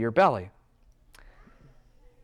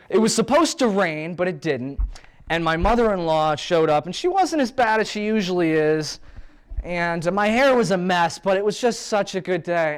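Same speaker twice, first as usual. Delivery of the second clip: client voice; 4 semitones higher than usual. Retold or imitated. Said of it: "And I'll say".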